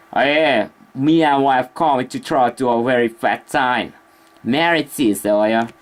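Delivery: slow attempt at a British accent. Shown as a demonstration. Streamer looking for a British accent to show, tentative British accent. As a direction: drawl it in a put-on British accent. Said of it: "looking for a British accent".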